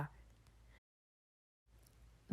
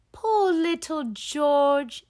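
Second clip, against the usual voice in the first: pitying; 7 semitones higher than usual. Acted. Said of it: "says Mummy Pig".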